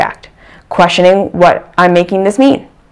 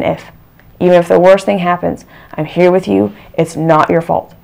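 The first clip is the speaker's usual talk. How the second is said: gentle self-reassurance. Shown as a demonstration. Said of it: "the witness to that voice and saying".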